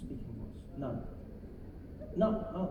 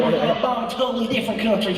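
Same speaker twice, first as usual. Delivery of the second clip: chuckling presidential impression, louder; mock president tickled by his own speech; George Bush; 5 dB louder, faster than usual. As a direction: chuckle through it like a mock politician. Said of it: "weird chuckling thing with his face".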